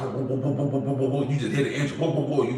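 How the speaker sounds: soft rhythmic boom, boom like a revving engine; engine boom imitation. Telling a listener how loud his Hellcat was, mimicking the rumble. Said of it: "that mother loud".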